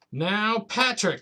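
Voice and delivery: granny at her wits' end; rising exasperated granny; exasperated cry. Acted. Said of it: "cried Granny".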